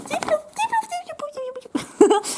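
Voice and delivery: very high cartoon creature squeak, repeating its name; high-pitched Piplup imitation; Pokémon cry. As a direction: chirp the name like the little penguin Pokémon.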